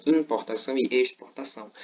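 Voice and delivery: "importação" with "im" hit, then "exportação" with "ex" hit; first syllables stressed. Shown as a demonstration. Teacher showing students the contrast, "im" and "ex" stressed. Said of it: "essa ênfasezinha na primeira sílaba".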